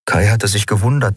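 ordinary delivery

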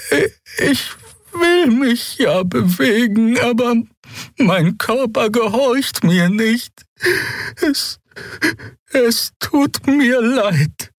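high, slow, trembling little voice; small creature frozen in fear, high and slow; frightened small creature. Acted. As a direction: plead helplessly, very high and slow.

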